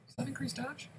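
high thin mock voice; silly high voice. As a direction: ask in a squeaky joke voice. Silly voice while asking.

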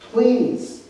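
begging at full voice; pleading. Acted. Dying thief begs Jesus.

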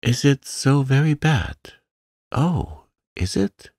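high, anxious plea; frightened, rising question; imploring. A narrator's reading. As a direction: plead for reassurance, pitch climbing. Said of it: "lifted imploringly".

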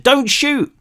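very high panicked cry; desperate shout. A narrator's reading. Cal begging the police not to fire, high panicked shout. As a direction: scream for them to hold fire. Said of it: "Cal shouted".

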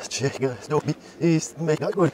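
"Checker Tobi ist mega cool" sounded out from reversed speech; reversed-back speech. Shown as a demonstration. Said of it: "wieder rückwärts abspielen".

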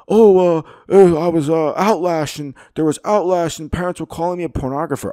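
high, loud whiny mock of the librarian; sneering parody of the librarian's excuse. Ranting host mocks the interviewed librarian, high whiny parody. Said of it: "being like".

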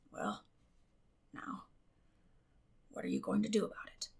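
very soft, near-whispered; forlorn. A narrator's reading. Matthew asking Marilla what to do, forlorn and hushed. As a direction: ask helplessly. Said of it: "Matthew asked forlornly".

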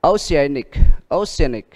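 oceanic with the stress on the A; oce-A-nic, falling after the stressed A. Shown as a demonstration. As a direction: model oceanic twice, leaning on A. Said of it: "Đó, A".

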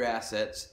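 assets with a jokey punch on the first syllable; stress on first syllable. Shown as a demonstration. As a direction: lean on the ass in assets for the joke. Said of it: "emphasis on the first syllable of that word".

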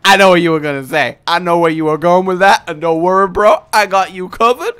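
high, loud hyped-up bro voice; pushy salesman pal handing out gifts; the game talking. Retold or imitated. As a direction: play the game as an overeager buddy. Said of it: "it's like the game was like".

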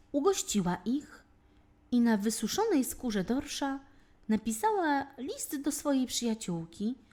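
ordinary delivery

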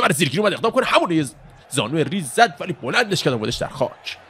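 high, fast-breaking fight call; excited live fight commentary; excited play-by-play. Real, not acted. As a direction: call the takedown as it happens, pitch leaping up.

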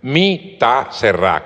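slow, word-by-word "Mi ta cerrá", stress on the final á; deliberate "Mi ta cerrá", no d in "cerrá"; Papiamento pronunciation. Shown as a demonstration. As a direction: show off "cerrá" with its accented last a. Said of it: "con tilde en la A".

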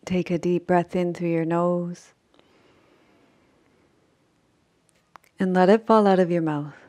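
unhurried sleep-meditation voice with long pauses; measured Yoga Nidra guidance, phrase by phrase; guided meditation. Acted. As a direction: guide them gently into rest, leaving long silences.

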